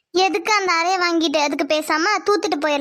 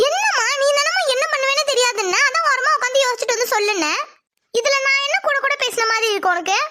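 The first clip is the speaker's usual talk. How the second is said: indignant protest; 7 semitones higher than usual. Acted. Daughter protests in argument.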